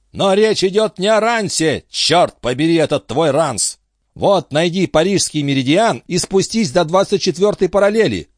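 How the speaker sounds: a high-voiced captain grilling his friend; excitable old sea captain. A narrator's reading. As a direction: press him like a fussy old skipper. Antifer directs on the map.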